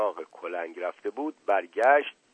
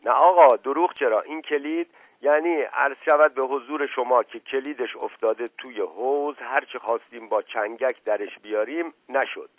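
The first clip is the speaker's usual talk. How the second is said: servant denying it, starting loud; lightly voiced earnest servant; 3 semitones higher, 4 dB louder than usual. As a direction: explain innocently, lightly characterised. Servant explains the lost key.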